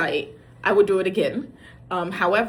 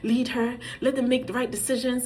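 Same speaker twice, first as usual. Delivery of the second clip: higher, earnest retold prayer; pleading prayer; 5 semitones higher than usual. Mom praying for her daughter on a date, pleading. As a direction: imitate pleading with God. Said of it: "I'm praying".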